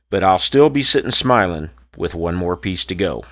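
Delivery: rhythmic rhymed poem recital; cowboy poetry. Acted. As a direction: recite it like a campfire cowboy poet. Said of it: "This cowboy poem is called".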